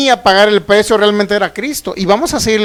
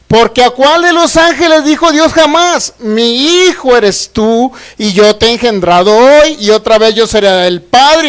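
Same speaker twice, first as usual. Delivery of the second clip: emphatic proclaimed verse, drawn out on key phrases; scripture reading; 4 dB louder than usual. Real, not acted. Preacher quoting God from Hebrews, emphatic proclamation. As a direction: proclaim it to the congregation, pausing on each phrase.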